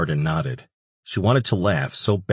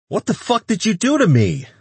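much higher, louder outraged voice; furious demand; 4 dB louder than usual. A narrator's reading. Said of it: "Antonio demanded".

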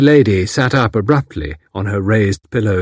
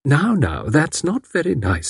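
mild; 5 semitones higher, 3 dB quieter, slower than usual. Acted. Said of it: "said Miss Packard mildly".

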